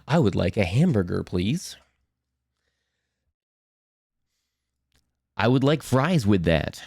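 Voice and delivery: a hint of a neutral news announcer American accent; flat American accent. Brit mimicking an American ordering fast food, mild announcer American accent. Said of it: "almost news announcer".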